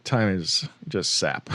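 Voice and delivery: slow, low drawled impression; lightly voiced slow Texas drawl; McConaughey impression. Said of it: "Matthew McConaughey is like".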